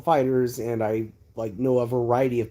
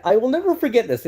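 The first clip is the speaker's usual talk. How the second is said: NEVER hit high and hard; emphatic never; 11 semitones higher, 5 dB louder than usual. Real, not acted. Telling viewers and his mother he will never forget, stressing never. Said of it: "If my mother is watching this".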